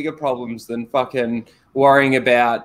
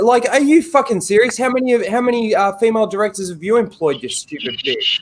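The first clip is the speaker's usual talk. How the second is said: outraged; 6 semitones higher than usual. Real, not acted. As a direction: scoff in real outrage. Outraged at Natalie Portman.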